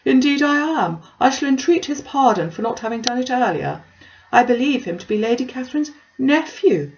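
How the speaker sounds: self-important Collins, puffed up with news; lightly voiced pompous parson. Collins insists on introducing himself.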